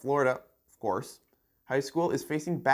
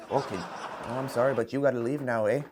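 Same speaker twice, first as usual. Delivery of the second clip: mock-apologetic Canadian parliamentarian; polite Canadian; 3 semitones lower than usual. Canadian parliament showing a member out, mock politeness. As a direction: gently ask them out, lightly hammed-up. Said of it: "though politely, I may add".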